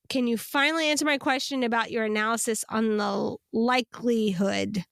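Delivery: croaky voice from drainage; vocal fry. Real, not acted. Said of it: "I just wanna apologize for my vocal fry".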